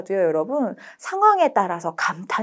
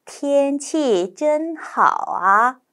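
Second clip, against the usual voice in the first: very slow model reading; 5 semitones higher, much slower than usual. Shown as a demonstration. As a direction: read it word by word. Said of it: "첫 번째는 천천히". (천천히 또박또박)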